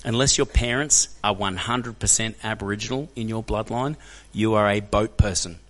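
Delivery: slow, measured delivery word by word; drawn-out, weighty verdict; deliberate, emphatic telling-off. Retold or imitated. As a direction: spell it out slowly and firmly. Blunt lesson to the bigot.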